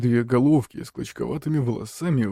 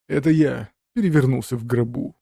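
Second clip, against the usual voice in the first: barking. Acted. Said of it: "рявкнул предок".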